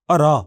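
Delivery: अरा said with a falling tone and no h sound; अरा as in Dogri, not हरा; Dogri tonal word. Shown as a demonstration. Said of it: "इसका उच्चारण तान में बदल जाता है".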